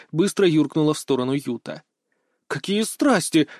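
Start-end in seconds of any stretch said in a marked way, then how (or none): 2.5-3.5 amused, higher, drawn-out exclamation; chuckling. A narrator's reading. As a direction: tease with a hint of a chuckle. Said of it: "хохотнула Фейр". (с лёгким смешком)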